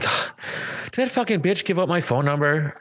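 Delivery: slow mock-outraged half-joke; joking in jest. Retelling a call, speaker jokingly grumbles about coworker. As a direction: tease it, a playful swipe. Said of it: "I said it to her in jest".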